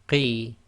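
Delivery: block the throat then release; Arabic qaf. Shown as a demonstration. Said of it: "Again with the qaf".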